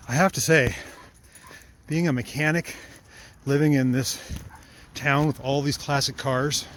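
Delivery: huffing and puffing while walking; out of breath. Real, not acted. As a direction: talk between hard breaths on a long walk. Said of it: "Sorry, I'm huffing and puffing here".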